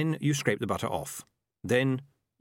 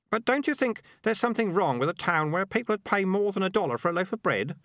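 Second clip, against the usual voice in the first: put-on higher-pitched voice of a kid; high kid voice, protesting; worried kid; 9 semitones higher than usual. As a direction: object as a young kid, pitched up.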